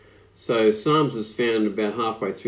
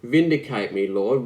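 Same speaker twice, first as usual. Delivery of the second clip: louder pleading Vindicate me Lord; crying out; 4 dB louder than usual. Shown as a demonstration. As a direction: cry it out to God. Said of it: "And it's a cry".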